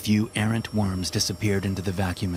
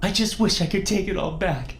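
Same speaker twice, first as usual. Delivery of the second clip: high, pleading woman's voice; tearful widow. Acted. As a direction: gush at him through tears. Tearful widow answers her husband.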